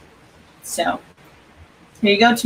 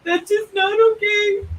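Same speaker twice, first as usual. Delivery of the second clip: mock outrage; 12 semitones higher than usual. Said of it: "that's always my go-to".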